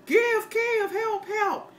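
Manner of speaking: high, mock-pleading beggar voice; sarcastic Red Cross fundraising whine; mocking charity plea. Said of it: "they're out there".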